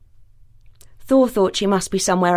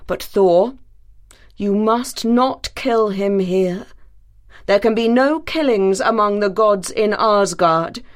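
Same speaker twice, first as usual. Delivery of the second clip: solemn counsel. Acted. Odin counsels his son Thor in council. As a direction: firmly forbid the killing.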